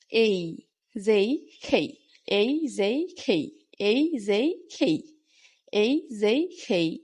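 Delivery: এই, যেই, খেই with long glides, k aspirated; pronunciation drill. Shown as a demonstration. Teacher models letters to practise ten times, pronunciation drill. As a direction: repeat এই, যেই, খেই as separate clear letters. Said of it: "উচ্চারণগুলো ঠিক হয়ে যাবে".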